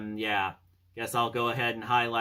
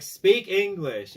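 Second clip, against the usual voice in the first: slow mock retort; 9 semitones higher, 8 dB louder, much slower than usual. Cap's retort quoted.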